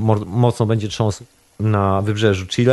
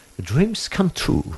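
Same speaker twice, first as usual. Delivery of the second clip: English spoken with British accent; 7 semitones higher, 3 dB quieter than usual. Closing his remarks, the speaker switches to English in a British accent. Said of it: "Mogę powiedzieć jedynie z brytyjskim akcentem".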